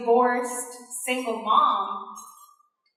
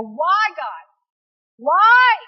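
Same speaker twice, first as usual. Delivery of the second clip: despairing cry; 4 semitones higher, 5 dB louder, much slower than usual. Retold or imitated. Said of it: "You can't stay there and go".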